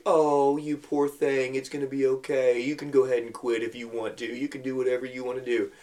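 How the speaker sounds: mock soothing, babying tone; lightly played coddling parent. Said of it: "Do they come over and say".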